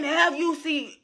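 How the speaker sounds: talking around new braces; words tripped up by braces. Real, not acted. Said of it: "excuse me and my braces".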